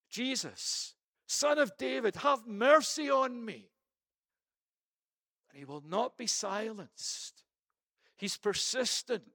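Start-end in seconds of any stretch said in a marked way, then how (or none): 0.1-3.7 louder and higher desperate scream of a blind beggar; screaming plea. Acted. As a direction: cry it out with all the power of your lungs. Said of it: "he's screaming out".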